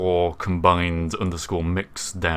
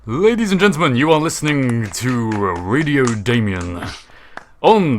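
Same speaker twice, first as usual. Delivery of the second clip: radio announcer; 4 semitones higher, 4 dB louder than usual. Acted. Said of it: "radio host announcement".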